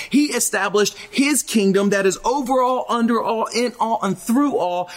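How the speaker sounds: lightly voiced God answering; God answering those who bargain with him. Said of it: "God looks back at us and says".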